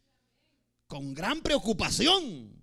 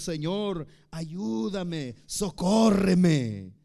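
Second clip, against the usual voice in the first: pleading prayer; 4 dB louder, much slower than usual. Retold or imitated. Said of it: "levantamos nuestra voz y le decimos".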